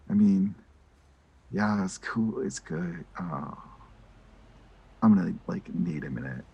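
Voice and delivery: soft, deflated and quiet; bummed, trying to brush it off; a little bummed. Retold or imitated. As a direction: sound let down but brave. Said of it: "they're just a little bummed".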